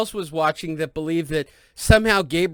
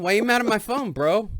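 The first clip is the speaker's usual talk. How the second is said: mock indignant; 4 semitones higher than usual. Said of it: "I, of course, respond".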